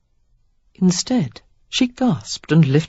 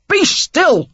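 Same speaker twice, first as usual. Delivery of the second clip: loud, high, rough snap of be still; furious man snarling at her; snarled; 13 semitones higher, 5 dB louder than usual. Acted. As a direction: make her cringe with it. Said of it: "He snarled the last two words".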